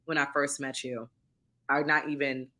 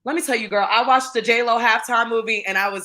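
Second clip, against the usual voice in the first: emotional, higher and louder; choked up; 5 semitones higher, 7 dB louder than usual. Real, not acted. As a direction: fight back tears while confessing. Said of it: "don't get me choked up".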